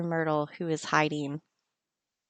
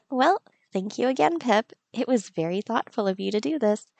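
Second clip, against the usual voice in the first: lightly voiced fond villager; Kara's voice; 3 semitones higher than usual. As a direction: voice Kara touched by the gift. Voicing Kara in game.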